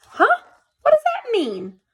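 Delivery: high, loud confused question; puzzled huh. A narrator's reading. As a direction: sound baffled by the note. Puzzled by the note.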